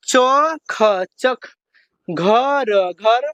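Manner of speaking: slow, each letter sounded before the joined word; teacher sounding out two-letter words slowly; letter by letter spelling. Shown as a demonstration. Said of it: "हिर्जा लगा के उच्चारण".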